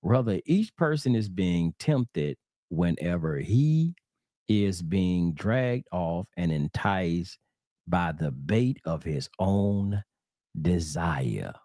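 very slow, deliberate verse reading; scripture reading. Acted. Preacher rereading the verse for listeners, slow measured reading. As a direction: draw the verse out, pausing between phrases.

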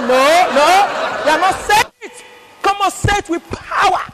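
rally them like a pastor; mock pastor demanding power; urging pastor.

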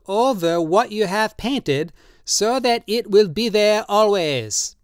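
put-on high, slow, pleading old man's voice; old tattooist Drioli, drunk and pleading. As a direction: coax him tenderly, in wine. Drioli explains his wish.

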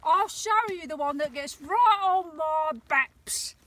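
a lightly put-on Cockney; a hint of a London Cockney accent. Real, not acted. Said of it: "as I've gone Cockney".

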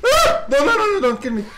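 very high, loud scream into laughing pleas; half-joking panic; panicked laughing scream. Real, not acted. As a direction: scream and beg while laughing. Attacked by monsters, laughing.

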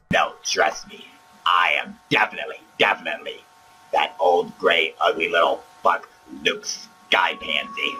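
fake Luke voice. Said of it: "Palpatine, you can drop the charade".

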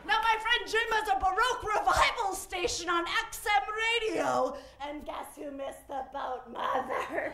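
hammed-up British reproach; theatrical British grown child; British accent. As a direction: blame mother in a put-on British accent. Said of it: "I don't know why he's British".

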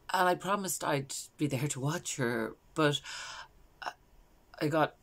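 hesitant mother, halting with long pauses; Valerie. Acted. Mother recalling arriving late at the pool, hesitant storytelling. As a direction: falter as the story turns. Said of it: "this is a character called Valerie".

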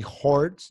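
"horts" with a clear O sound; wrong O vowel. Shown as a demonstration. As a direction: say "horts" as the mistaken version with oh. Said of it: "No es ni A, ni E, ni O".

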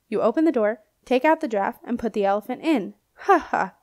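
hearty laugh at his own joke; laughing old knight. Acted. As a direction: chortle through the punchline.

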